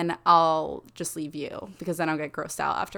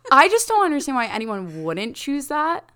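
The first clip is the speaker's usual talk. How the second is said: laughing; 7 semitones higher, 7 dB louder than usual. Real, not acted. Laughing about firing squad.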